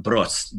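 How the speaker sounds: brost said alone with a rolled r. Shown as a demonstration. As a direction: roll the r in brost. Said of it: "second part".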